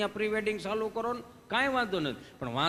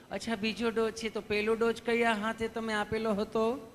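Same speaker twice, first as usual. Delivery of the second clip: loving nurse; 3 semitones higher than usual. Retold or imitated. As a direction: coax him gently like a kind nurse. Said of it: "તમે કેટલું પ્રેમથી પૂછો છો".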